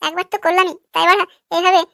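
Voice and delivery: acted exasperation. Boyfriend impatient with complaining girlfriend, exasperated.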